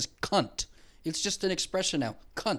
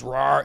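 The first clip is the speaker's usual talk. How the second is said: lion roar imitation; 2 semitones lower, 4 dB louder than usual. Shown as a demonstration. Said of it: "he goes".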